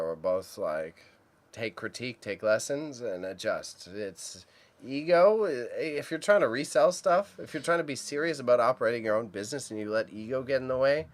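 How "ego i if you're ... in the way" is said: worked-up rant, louder and higher. Real, not acted. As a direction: get heated about ego. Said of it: "I can rant about that".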